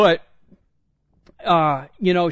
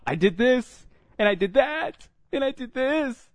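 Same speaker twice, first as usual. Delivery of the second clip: put-on higher, tearful little girl listing her wrongs; daughter's voice; 10 semitones higher than usual. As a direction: pitch up like the upset daughter. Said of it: "she's like".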